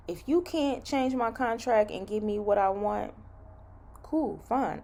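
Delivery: measured, not yelling; calm phone voice. Shown as a demonstration. Nurse showing how calmly she talked to her recruiter. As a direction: state the demand evenly, without yelling. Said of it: "I'm not yelling".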